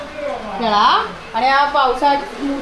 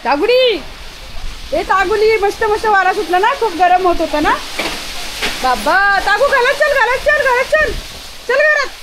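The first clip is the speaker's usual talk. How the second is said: pet-talk calling; 8 semitones higher than usual. Real, not acted. Owner coaxing her pet indoors before the storm, high coaxing call. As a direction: coax the pet home in a high voice.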